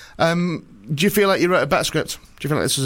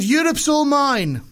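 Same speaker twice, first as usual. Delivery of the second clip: put-on Russian accent; 10 semitones higher, much slower than usual. Putin gloating to Obama in a hammed-up Russian accent. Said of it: "probably a Russian one".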